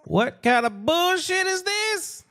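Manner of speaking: frustrated outburst. Real, not acted. Frustrated at broken call.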